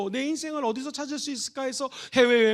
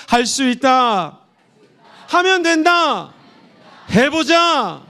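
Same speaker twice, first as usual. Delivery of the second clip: loud, slow rallying shout; shouted slogan; 7 dB louder, much slower than usual. Shown as a demonstration. Preacher leading the church in a loud slow chant. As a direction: shout it out to rouse the crowd. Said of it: "한번 외쳐봅시다".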